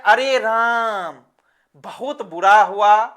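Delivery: mildly acted dismay at bad news; दुखद पुकार. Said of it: "हो जाती है अचानक, तो बोलते हैं". (हल्के अफ़सोस में खींचकर)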